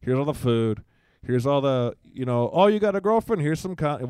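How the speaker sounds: gushing rising pitch and volume; mock doting parent. Father mocking a spoiling parent, gushing. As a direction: overeager dad handing over everything.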